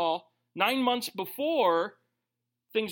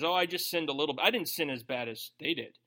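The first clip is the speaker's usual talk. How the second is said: mock excuse; 5 semitones lower than usual. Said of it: "I like to word my confession as".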